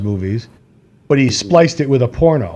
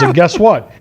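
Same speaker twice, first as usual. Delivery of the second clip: mock proud reveal; 4 semitones higher, 3 dB louder, slower than usual. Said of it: "And he goes".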